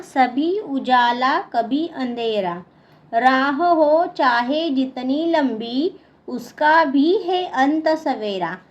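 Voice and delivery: measured classroom verse reading; poem recitation. Acted. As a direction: recite it line by line, pausing after each. Reads the fourth stanza aloud. (कविता पाठ)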